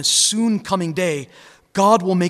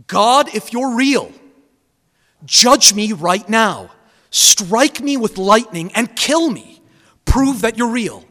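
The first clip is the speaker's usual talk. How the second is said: louder, higher, slow mock challenge to God; retold defiant shout; 5 semitones higher, 6 dB louder than usual. Preacher retelling the atheist golfer daring God, defiant slow shout. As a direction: call out slowly to the sky as the mocking atheist. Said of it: "and he cried out".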